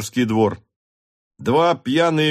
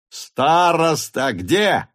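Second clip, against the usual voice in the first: shout; 6 semitones higher, much slower than usual. A narrator's reading. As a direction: yell it out slowly. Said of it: "кричал Ростов".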